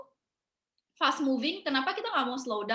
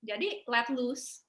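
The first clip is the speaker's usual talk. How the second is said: slow and easy; much slower than usual. Real, not acted. Relaxed advice, drawn out.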